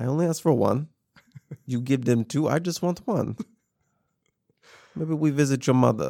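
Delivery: put-on a bit of a Russian accent. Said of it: "He just needs a little bit of Russian accent".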